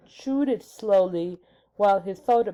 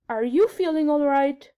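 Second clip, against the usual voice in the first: worried king; 6 semitones higher, 5 dB louder than usual. A narrator's reading. King concerned.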